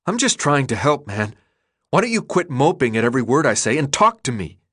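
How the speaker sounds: a touch of anger from Thomas; frustrated pushback. Acted. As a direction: snap back in rising annoyance. Thomas snaps back angrily.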